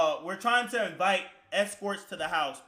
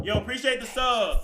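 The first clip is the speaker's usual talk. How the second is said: quick whisper to chat; whispered thanks; 3 semitones higher, 5 dB louder than usual. Real, not acted. Thanking a new subscriber in a hushed whisper. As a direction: breathe the thanks out, no voice. Thanking a sub mid-stream.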